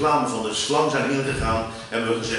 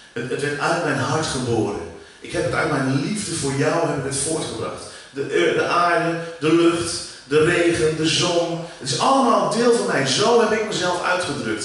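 speaking as God; 4 semitones higher than usual. Acted. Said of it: "zegt God daar".

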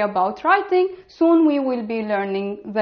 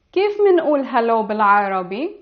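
fast; much faster than usual. Shown as a demonstration. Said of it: "I will give you an example".

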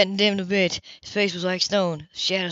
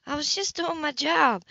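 higher, slow defensive woman; 8 semitones higher than usual. Acted. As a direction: insist you did your job. Grace defends herself.

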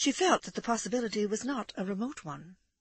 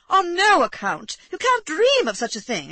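alarmed lady crying out against the idea; exclaiming alarm; 12 semitones higher, 7 dB louder than usual. A narrator's reading. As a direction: protest in sudden panic, pitched very high. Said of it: "exclaimed Amanda".

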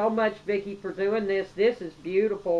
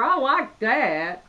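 admiring; 3 semitones higher, slower than usual. Real, not acted. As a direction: linger on each word, genuinely pleased. Admiring the gift wrapping.

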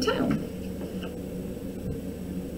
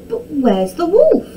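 high, louder puzzled query; flustered question; 9 semitones higher, 6 dB louder than usual. A narrator's reading. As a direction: ask in confused alarm. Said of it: "stuttered the man".

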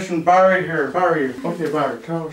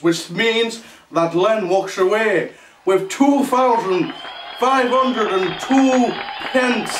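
excited announcing; 5 semitones higher, slower than usual. Acted. Announcing winner prize.

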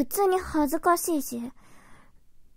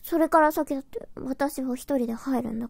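huffy flustered denial. Acted. Tsundere insisting it's only today.

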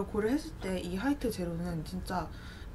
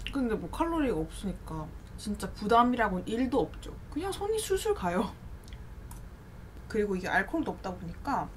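eating between words; talking while chewing. Real, not acted. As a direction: mouth partly full. Seen 3: Lips pressed, cheeks slightly full; she eats with chopsticks throughout.

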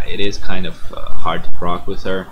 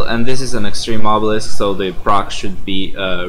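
ordinary talk, nothing marked

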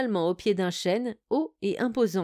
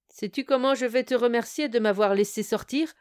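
terrible roar; 3 semitones higher than usual. Acted. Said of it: "hurla-t-il d'une voix terrible".

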